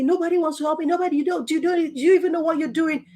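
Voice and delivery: imitated angry shout. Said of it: "she was just shouting at me".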